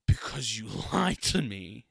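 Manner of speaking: breathy whispered whine, laughing; mock whisper. Amber answering Mark, laughing mock whisper. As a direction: whisper it like a wounded pout. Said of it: "she's like".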